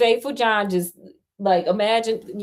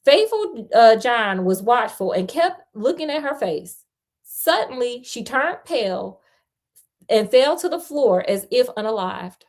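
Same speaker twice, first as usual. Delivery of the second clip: animated read-aloud, livelier than chat; fairy tale read out with emphasis; story narration; 4 semitones higher, 3 dB louder than usual. A narrator's reading.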